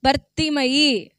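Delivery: drawn out, slow and falling; slow name answer. Shown as a demonstration. Preacher slowly giving the blind man's name. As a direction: spell the name out slowly for the crowd. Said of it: "పేరేంటండి?".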